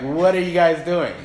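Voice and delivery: hammed-up indignant challenge; putting it on them. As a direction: scold the parents, playfully acted. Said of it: "Putting it on them".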